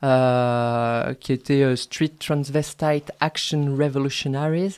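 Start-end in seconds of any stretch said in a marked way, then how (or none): 1.7-4.8 slow, self-mocking French-English accent; a light put-on English accent on the English name; joking English accent. Shown as a demonstration. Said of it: "avec mon bel accent anglais".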